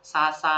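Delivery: さーさー said crisply like rain sounds; onomatopoeia demo. Shown as a demonstration. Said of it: "ฝนตกเสียงแบบซ่าซ่า".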